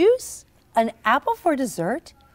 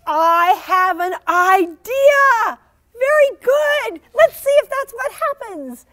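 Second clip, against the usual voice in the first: excited idea; 10 semitones higher, 7 dB louder than usual. Acted. Jessica has an idea.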